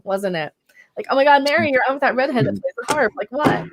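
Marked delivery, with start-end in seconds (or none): 1.1-3.1 put-on light, fast Valley Girl gush. Shown as a demonstration. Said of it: "that was supposed to be sounding like a Valley Girl".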